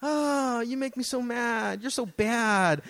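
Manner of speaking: a limp, giggly fake scold; half-hearted yelling. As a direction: pretend to be mad and not mean it. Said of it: "half-heartedly did it".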